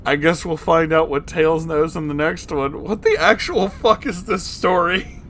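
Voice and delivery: amused sign-off. Real, not acted. Wrapping up the chapter, amused.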